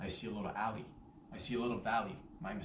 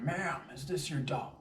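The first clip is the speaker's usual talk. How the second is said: firmer repeat; 5 semitones higher, 4 dB louder than usual. Retold or imitated. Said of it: "reiterate my point".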